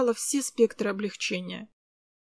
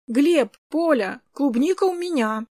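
put-on child calling out; 4 semitones higher, 5 dB louder than usual. Kris bursts in calling.

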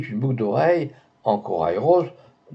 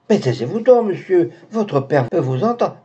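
alarmed hushing; 6 semitones higher than usual. Acted. Maid hushing an angry young man.

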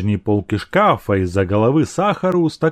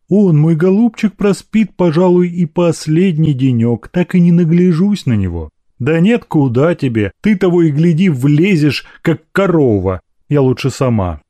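higher, louder fretful mother; doting mother; 6 semitones higher, 5 dB louder than usual. Acted. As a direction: fret fondly, then fuss at the maid. (причитающая заботливая мать)

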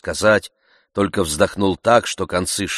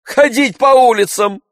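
much higher, louder scoff; scornful outcry; 10 dB louder than usual. A narrator's reading. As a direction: repeat it with contempt. Master scoffing.

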